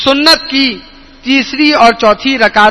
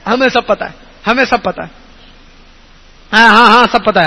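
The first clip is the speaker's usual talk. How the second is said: mild mock of a proud know-it-all; lightly voiced brush-off; dismissive know-it-all. Preacher imitates people who won't be told, dismissive. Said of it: "آگے سے کیا کہتا ہے".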